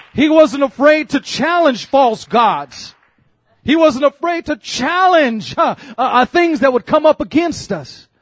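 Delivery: slow, emphatic pulpit declaration; emphatic preaching. Real, not acted. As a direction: preach it in measured, stretched phrases. Preaches at full force.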